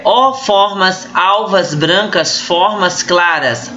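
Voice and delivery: "formas alvas brancas" read slowly with full, drawn-out A vowels; assonance demo. Shown as a demonstration. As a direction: stretch the A sounds in "alvas brancas, formas claras". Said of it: "a repetição da vogal".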